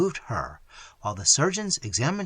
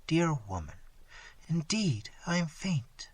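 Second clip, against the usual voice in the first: softer and softer, ending in a whisper; dying daughter comforting her mother, fading to a whisper; 5 dB quieter than usual. Acted. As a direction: let the life drain from the words.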